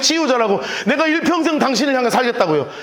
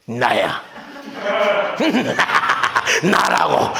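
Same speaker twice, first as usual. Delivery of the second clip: mock cold glare; 6 semitones lower, much slower than usual. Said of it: "독사의 눈을 뜨고 쳐다보셨겠어요".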